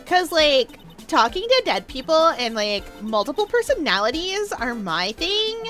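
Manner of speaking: put-on Valley Girl accent. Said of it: "do a Valley Girl accent".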